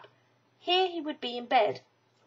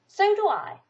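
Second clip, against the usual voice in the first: happy Pooh; 9 semitones higher, 8 dB louder than usual. A narrator's reading. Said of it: "said Pooh".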